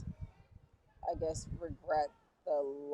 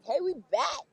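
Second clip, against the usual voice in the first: high, bright mock announcement of return; breezy comeback greeting; 10 semitones higher, 4 dB louder than usual. To old friends, a mock cheery return greeting. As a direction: toss off a cheery "we're back". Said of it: "be like".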